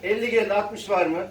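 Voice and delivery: calling out bids at auction; rhythmic auction calling; auctioneer. Real, not acted.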